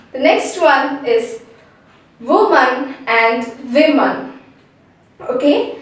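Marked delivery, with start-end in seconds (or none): 2.2-4.4 "woman" as "WOO-man", "women" as "VIM-an", slowly; slow, separated "woman" and "women"; stressed word contrast. Shown as a demonstration. Teacher introduces two stressed words, slow careful contrast. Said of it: "Both the words are stressed".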